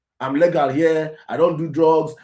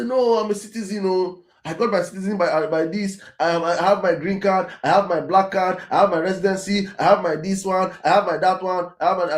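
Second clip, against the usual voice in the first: higher pitched mock protest listing papers; mock pleading; 5 semitones higher than usual. Migrant pleads papers to far-right locals, higher mock protest. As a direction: plead like a migrant waving documents. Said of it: "And you say".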